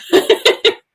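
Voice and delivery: quick high-pitched laugh; high giggle. Real, not acted. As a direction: giggle at the silly image. Laughs at pirate ship joke.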